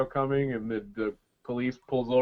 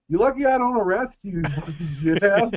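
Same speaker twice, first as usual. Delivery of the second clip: much higher, louder imitated cop yell; mock yelling cop; 7 semitones higher, 8 dB louder than usual. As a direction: bark it like a fed-up cop.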